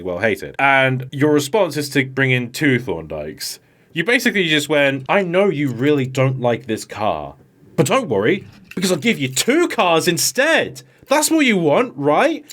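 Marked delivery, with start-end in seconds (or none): 5.1-12.4 rising, falsely generous sales pitch; mock-cheerful. Mocking the writer offering two Thorndykes, falsely cheerful. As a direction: offer it like a smug gift.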